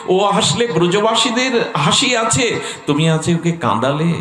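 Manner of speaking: acted heartfelt reproach, climbing in pitch; pained reproach. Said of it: "সুবলের খুব হৃদয়ে ব্যথা লাগলো". (ব্যথিত অনুযোগ, ক্রমে চড়া সুরে)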